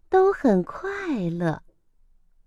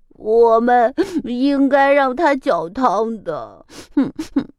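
吸着鼻子说; 后悔地抽泣; sniffling squirrel. Acted. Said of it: "松鼠吸了吸鼻子说". (松鼠吸着鼻子后悔)

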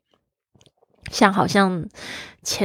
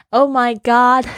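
drawn-out, louder, higher gasp of a line; mock shock; 5 semitones higher, 4 dB louder, slower than usual. Students reacting to the old auntie's wedding, hammed-up shock. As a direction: overdo the shocked Oh my God. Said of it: "不能这样说".

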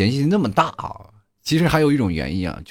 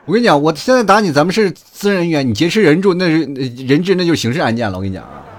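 mock retort; 4 semitones higher, 5 dB louder than usual. Retorting to the bullies, laughing.

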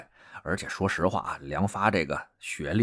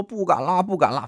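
mock pleading; 9 semitones higher than usual. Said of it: "连连求饶".

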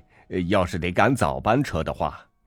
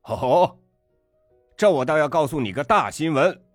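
scornful tirade; 10 semitones higher than usual. A narrator's reading. Father scornfully tells off waiter.

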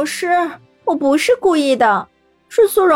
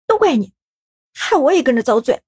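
higher, peeved blame; grumbling complaint; 6 semitones higher than usual. A narrator's reading. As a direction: grumble at him. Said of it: "不满地抱怨".

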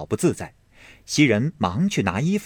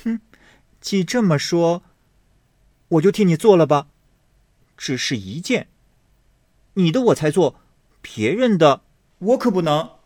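high, quick knowing tease; young lady with a sly grin, high and quick; sly smile; 7 semitones higher than usual. Acted. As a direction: agree with a hidden barb. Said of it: "阴笑道".

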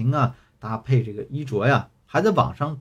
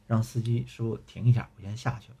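impatient. Retold or imitated. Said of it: "男朋友有点不耐烦".

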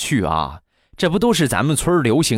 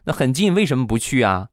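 put-on higher, curious girlish voice; puzzled young woman; 5 semitones higher than usual. Girl asking Dapao why he never went, higher curious voice. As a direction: ask him innocently as the girl. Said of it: "这个小姐姐就问他".

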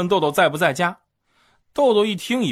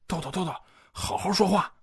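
softer urgent aside to a friend; quietly; 6 dB quieter than usual. Retold or imitated. Nudging Doudou in front of the boss, softer quick aside. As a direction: hush him under your breath. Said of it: "就小声说".

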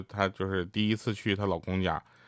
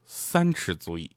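slow, lower mock-philosopher line; sage's pronouncement; 4 semitones lower, slower than usual. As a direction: pronounce it slowly like a wise man. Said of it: "哲人说".

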